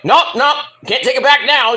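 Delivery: high, loud playful refusal; teasing singer. Retold or imitated. Singer teasing the fan about her new nickname. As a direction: tease him that it's too late now. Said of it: "So she's like".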